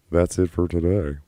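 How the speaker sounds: breathy whispered outro line; whispered sign-off. Shown as a demonstration. Streamer rehearsing his outro, whispered take. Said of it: "That is it for today".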